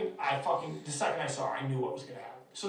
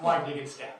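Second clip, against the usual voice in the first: ordinary talk, nothing marked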